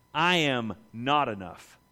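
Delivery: humble confession. Retold or imitated.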